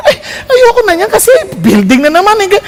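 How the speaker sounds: teary half-laugh complaint; laughing through tears. Retold or imitated. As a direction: laugh it out while near tears. Quoting own complaint, laughing and crying. (tumatawang naiiyak)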